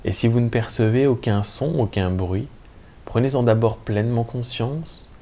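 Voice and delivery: calm, measured Yoga Nidra guidance with long pauses; guided meditation. Acted. Teacher guiding listeners lying in Shavasana into lucid sleep, calm meditation voice. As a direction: lead listeners gently into rest, leaving room between phrases.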